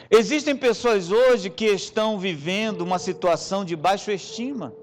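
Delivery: rising, fervent preaching over music. Acted. Preacher pleading with the church over music, fervent. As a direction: build the appeal to the congregation.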